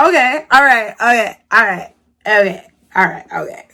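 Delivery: brushing him off, winding down to nothing; fading okays. Retold or imitated. Retold dismissive brush-off.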